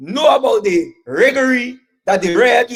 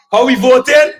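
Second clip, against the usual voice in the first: rally call; 4 semitones higher, 5 dB louder than usual. Real, not acted. Rally call-and-response to crowd.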